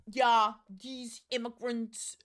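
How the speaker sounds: halting, slowed politician impression, lightly put on; hesitant mock British speech-maker; Rishi Sunak impression. Streamer trying out how the prime minister speaks, mock-halting. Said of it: "How does he speak?".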